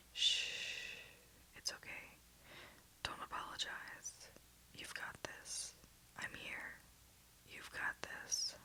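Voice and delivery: slow, soft, hushing reassurance; calm her with a slow hush; comforting a panicking pilot, gentle and slow; soothing. Acted. Calming a terrified partner.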